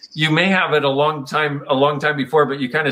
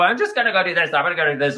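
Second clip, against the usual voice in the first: a hint of a heedless little kid; lightly voiced six-year-old; 3 semitones higher, faster than usual. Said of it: "Not like a big six-year-old".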